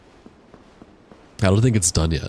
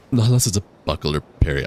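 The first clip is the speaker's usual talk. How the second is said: hiccuping. Real, not acted. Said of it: "I'm hiccuping".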